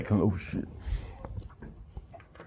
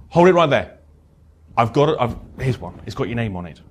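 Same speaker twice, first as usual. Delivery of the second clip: urgent stop. Shown as a demonstration. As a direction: burst in to catch the tears in time.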